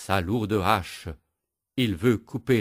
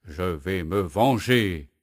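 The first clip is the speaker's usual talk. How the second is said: grumbling; slower than usual. Acted. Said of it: "grogne le bûcheron".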